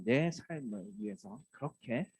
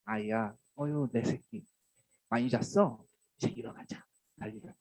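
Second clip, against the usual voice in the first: tender voice. Retold or imitated. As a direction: coax gently like cradling a baby. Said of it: "굉장히 다정한 목소리로". (아이를 깨우는 아주 다정한 목소리)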